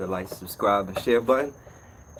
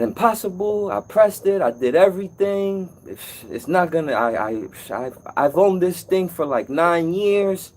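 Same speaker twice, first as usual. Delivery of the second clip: a lightly voiced, higher customer protesting; indignant customer; 5 semitones higher than usual. Customer insisting to the repairman her range is broken, mild mock indignation. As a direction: play the stubborn lady who won't believe it. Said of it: "She said".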